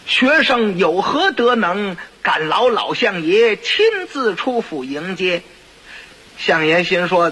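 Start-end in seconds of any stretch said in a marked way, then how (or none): 0.1-5.4 mock humble courtesy. Boy politely greets the chancellor.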